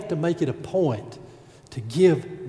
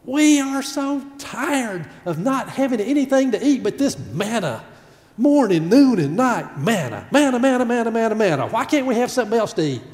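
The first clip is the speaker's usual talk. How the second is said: grumbling Israelites; 5 semitones higher than usual. Acted. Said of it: "Grumbling, complaining".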